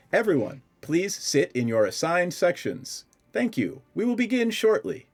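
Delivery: clipped robotic voice. As game master, voicing a computer's announcement to everyone: clipped computer voice. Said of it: "It sounds like a computer. It it has that clipped sound".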